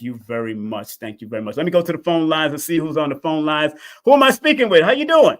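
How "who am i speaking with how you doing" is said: excited greeting. Real, not acted. Greeting caller loudly.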